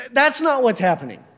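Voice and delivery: normal talking voice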